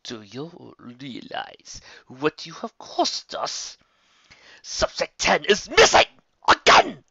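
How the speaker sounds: slow menace building to a loud yell; seethe, then explode at him; enraged villain. Acted. Bloodwing raging at his henchman over a lost subject, yelling. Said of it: "face etched with rage".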